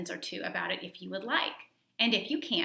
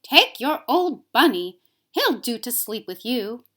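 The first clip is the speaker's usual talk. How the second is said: louder, hurried nursemaid; brisk Nana; 4 semitones higher, 10 dB louder, slower than usual. A narrator's reading. Nana hands the boy his bunny at bedtime, brisk and loud. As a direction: bark it like a busy nanny. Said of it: "she said".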